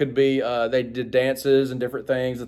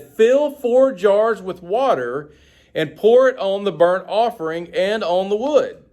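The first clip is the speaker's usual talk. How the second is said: slow commanding order; 6 semitones higher, slower than usual. Acted. Elijah commands the drenching.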